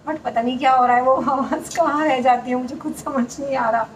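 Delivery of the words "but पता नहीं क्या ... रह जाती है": trying to speak loud. Real, not acted. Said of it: "मैं कोशिश कर रही हूँ कि मैं, मेरी आवाज़ तेज़ जाए".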